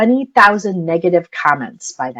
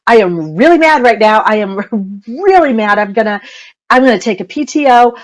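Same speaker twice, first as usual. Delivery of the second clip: mock angry mom; 3 semitones higher than usual. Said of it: "where I say".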